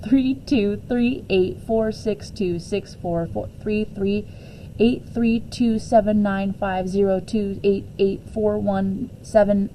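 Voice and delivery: slow, even recitation of digits; slow, measured reciting of pi. Shown as a demonstration. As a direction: count out each digit slowly and steadily. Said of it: "recite the numbers".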